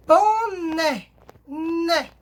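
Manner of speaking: boné drawn out, then né alone; stress on NÉ. Shown as a demonstration. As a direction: stretch boné towards né, then isolate né. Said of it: "o acento em cima do E".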